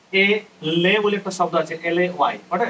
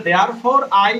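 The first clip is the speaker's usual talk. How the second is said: drawn-out therefore, a little louder; slow reading; 3 semitones higher, 7 dB louder, much slower than usual. Shown as a demonstration. Teacher reading the poem line slowly to students. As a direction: read it slowly so they can write.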